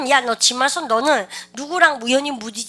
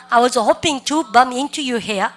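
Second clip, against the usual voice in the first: very slow, each word spelled out for students; teacher's slow drill read; slow repeat-after-me; 4 dB louder, much slower than usual. Shown as a demonstration. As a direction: model it slowly for the class to copy. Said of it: "시작".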